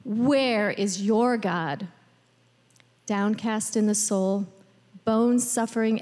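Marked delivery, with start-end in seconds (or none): 0.0-1.9 slow, measured quotation; deliberate, evenly spaced words; solemn scripture reading. A narrator's reading. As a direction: read the foes' question slowly and gravely. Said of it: "as my foes taunt me, saying".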